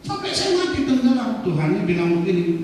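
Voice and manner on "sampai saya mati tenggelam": high, loud complaint to God; acted aggrieved wail, pitched way up; indignant protest. Drowned man protesting to God in heaven, high indignant complaint.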